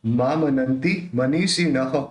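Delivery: मनीषिणः ending in a separate "ha"; विसर्ग का ह अलग. Shown as a demonstration. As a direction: voice the visarga of मनीषिणः as its own ha. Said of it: "ह अपने को अलग से बोलना है". (मनीषिणः के अंत में ह अलग से)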